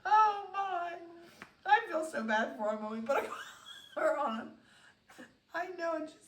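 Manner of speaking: high voice breaking into laughter; helpless laughter through the words; laughing. Real, not acted. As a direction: fight real giggles while talking. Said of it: "I can't believe I'm laughing".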